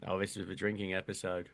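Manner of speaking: low-pitched attempt at a French accent; Arsene Wenger impression. Podcaster attempts the French manager scolding Martin, low French accent. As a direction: put on a deep French-accented voice. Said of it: "talking in this accent. It's Arsene Wenger".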